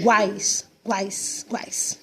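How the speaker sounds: one-beat "guais", repeated; vowels tightly joined. Shown as a demonstration. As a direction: blend "guais" into one glide, fading on each repeat. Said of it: "Muito juntinho".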